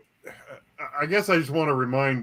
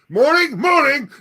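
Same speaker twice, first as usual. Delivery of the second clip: high, slow, laughing morning; laughing goldfish greeting; 13 semitones higher, 9 dB louder, slower than usual. Pretend. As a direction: giggle through the greeting.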